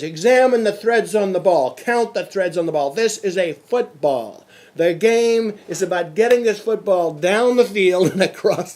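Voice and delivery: a loud hint of a drilling coach; coach's speech. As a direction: hammer home the basics to the players. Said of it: "And the speech started".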